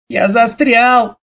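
high, slow frightened call; a trapped boy calling for help; stuck child's cry. A narrator's reading. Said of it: "закричал Лёшка". (испуганный крик застрявшего мальчика)

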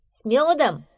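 high, loud happy interjection; cheerful hare. Acted. Hare adding to bear's invitation, cheerful.

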